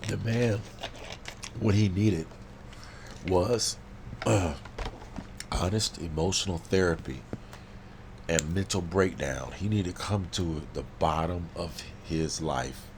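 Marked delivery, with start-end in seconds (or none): 0.1-9.5 passionate shout. Real, not acted. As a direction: hammer it home loudly. Passionate loud rant.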